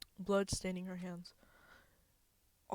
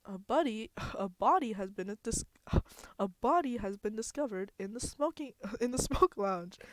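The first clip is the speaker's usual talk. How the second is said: silly voice; 3 semitones higher, 5 dB louder than usual. Acted. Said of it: "trying to do the silly Monokuma voice".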